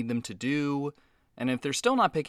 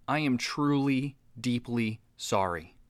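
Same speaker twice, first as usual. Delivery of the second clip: sincere apology; 3 semitones lower, slower than usual. Acted. Host apologising to the offended alien prince, slow and sincere. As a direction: apologise slowly and earnestly.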